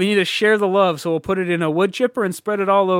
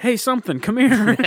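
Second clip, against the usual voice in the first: calling a dog; 7 semitones higher, 4 dB louder than usual. Pretend.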